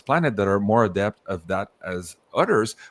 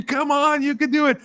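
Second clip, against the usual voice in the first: much higher, louder squeaky cheer; elves cheering; 4 dB louder than usual. Retold or imitated. Elves screaming encouragement at the visitor, high squeaky cheer. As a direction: cheer like a tiny frantic coach. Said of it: "they're screaming at you".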